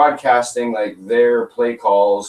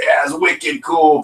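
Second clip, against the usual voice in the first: drawn-out, slightly higher New England accent; 4 semitones higher, slower than usual. Shown as a demonstration. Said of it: "a New England accent".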